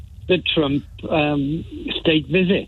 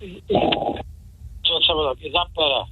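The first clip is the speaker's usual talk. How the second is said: glitchy robotic phone line; distorted robot voice on a bad line; slower than usual. Real, not acted. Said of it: "now you sound like a robot".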